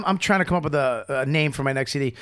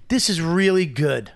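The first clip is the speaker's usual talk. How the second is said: proud title; slower than usual. Pretend. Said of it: "name your C D".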